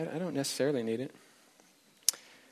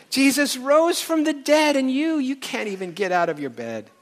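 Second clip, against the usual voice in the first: reciting a singer's lyrics; 7 semitones higher than usual. Retold or imitated. Preacher reading a singer's lyrics to the congregation, impassioned and higher. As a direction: recite the song like a fiery rebuke. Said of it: "he repeats it just in case".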